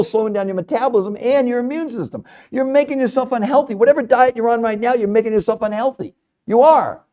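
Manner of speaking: insistent alarm about diets; urgent warning. Real, not acted. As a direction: drive it home to every listener. Hammering the warning at listeners.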